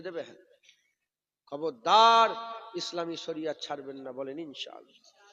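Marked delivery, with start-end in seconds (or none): 1.5-5.2 loud sudden warning shout; shouted beware; sharp warning. Real, not acted. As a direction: bark it out as a stern warning. Preacher warning audience.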